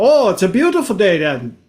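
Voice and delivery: mock Swiss lilt; Swiss accent. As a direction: imitate a cheerful Swiss tourist. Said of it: "we are from the Switzerland".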